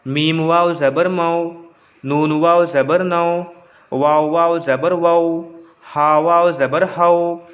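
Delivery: slow, level drill chant; spelling recitation. Shown as a demonstration. Teacher reading it all out for pupils, slow even recitation. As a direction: recite letter by letter on one even tone. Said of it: "जैसे जैसे मैं पढ़ रहा हूँ".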